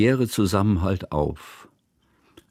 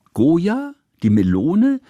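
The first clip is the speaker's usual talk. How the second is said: put-on confused child; 8 semitones higher, 4 dB louder, slower than usual. A narrator's reading. Girl confused, eager.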